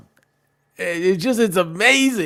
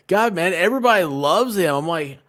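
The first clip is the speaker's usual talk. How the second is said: excited retold gushing; 6 semitones higher, 8 dB louder than usual. Excited retelling about a friend's look.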